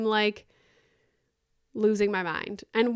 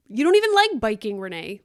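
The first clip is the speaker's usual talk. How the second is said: self-scolding outburst; 5 dB louder than usual. Real, not acted. Scolding herself mid-story.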